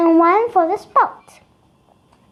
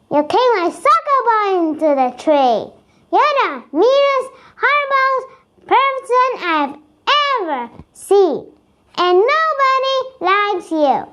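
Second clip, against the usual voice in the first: higher, heated telling-off; angry yelling; 7 semitones higher than usual. A narrator's reading. Billy yelling at Jason, still furious. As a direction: let the anger pour out at him. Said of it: "When Billy finishes yelling".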